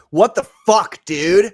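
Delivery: loud, joking indignation; mock outrage. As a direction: shout it in playful disbelief. Mock outrage at being left out.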